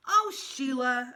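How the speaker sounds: loud, drawn-out exasperated call; fed up, call her out slowly; shouting. A narrator's reading. Peter shouting at Sheila on their rocks, loud and slow. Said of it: "I shouted".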